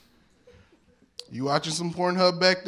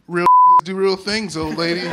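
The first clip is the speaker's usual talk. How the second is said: tough guy shout; 4 semitones higher, 10 dB louder than usual. Retold or imitated. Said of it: "I kneeled down and I said".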